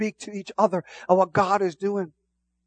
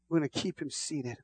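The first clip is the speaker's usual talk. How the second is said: much softer, near a hush; 4 semitones lower, 13 dB quieter than usual. Real, not acted. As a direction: drop it low and intimate. Hushed repetition.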